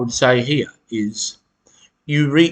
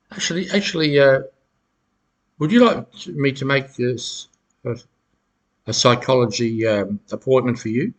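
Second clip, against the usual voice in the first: mock helpful. Shown as a demonstration. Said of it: "You pause".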